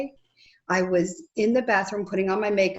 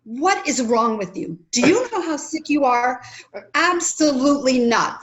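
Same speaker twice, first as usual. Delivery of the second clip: husband's objection; 4 semitones higher than usual. Retold or imitated. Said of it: "he's like".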